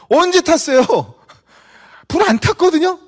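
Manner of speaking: high, loud, exasperated retort; indignant outburst. Retold or imitated. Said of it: "또 열이 받은 거예요".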